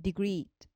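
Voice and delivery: ディグリー with weight on the last リー; stress on final syllable. Shown as a demonstration. Teacher repeats the example degree, ディグリー stressed on final リー. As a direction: stress the long リー closing ディグリー. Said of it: "そこを強く読むんですね".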